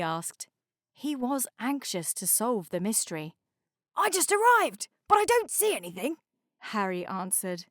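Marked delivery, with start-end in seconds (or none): 3.9-6.2 sleepy tugboat voice. A narrator's reading. Harry character voice.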